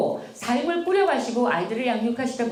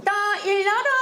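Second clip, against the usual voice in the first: bugle wake-up call; 8 semitones higher than usual. Retold or imitated. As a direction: wake the kids like a trumpet blast. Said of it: "정말 나팔수처럼 깨우세요". (엄마가 아이들을 깨우며 나팔수처럼 외치기)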